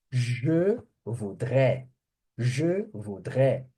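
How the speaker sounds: slow, separated "Je voudrais"; French pronunciation demo. Shown as a demonstration. Teacher showing students the same verb pronunciation, slow French demo. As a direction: model "Je voudrais" slowly, word by word. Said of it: "você vai ter a mesma pronúncia".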